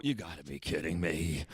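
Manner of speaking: low, flat, mumbled disbelief; muttered disbelief. Retold or imitated. Retelling his reaction to being banned, low muttered disbelief. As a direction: mutter it like you can't believe it. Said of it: "I go".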